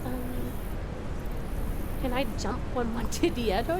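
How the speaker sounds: attempted British mum with babyish w-for-r sounds; British uwu baby-talk mum. Streamer doing requested redeems, British uwu baby-talk voice. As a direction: mix a British accent with cutesy baby talk. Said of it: "while I'm doing uwus and mum voices".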